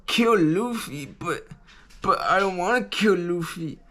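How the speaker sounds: lightly voiced upset girl protesting; Nami's dismay. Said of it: "then she's like".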